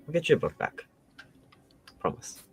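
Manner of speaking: soft in-character promise; gentle reassurance. Acted. Promising Callie a book back, softly reassuring. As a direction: comfort a friend quietly. Character puts arm round crying friend.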